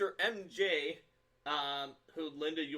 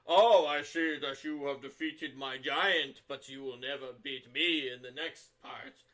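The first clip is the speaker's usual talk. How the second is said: a villain bleeding out, taunting heroes with his last breath; dying Karzug; 4 dB louder than usual. Acted. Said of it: "they talk through the voice of a dying person".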